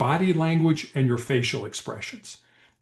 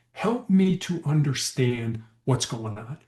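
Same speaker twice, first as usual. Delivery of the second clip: slow, gentle ask; calm empathy; slower than usual. Shown as a demonstration. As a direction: ease into understanding. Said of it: "the important word there".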